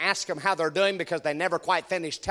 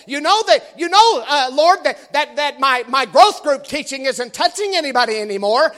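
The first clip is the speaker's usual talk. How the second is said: put-on whiny man child; 4 semitones higher, 4 dB louder than usual. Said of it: "whining like a little baby".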